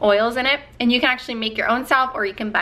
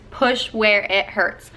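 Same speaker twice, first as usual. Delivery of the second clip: encouraging coach; much slower than usual. Retold or imitated. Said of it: "and she said".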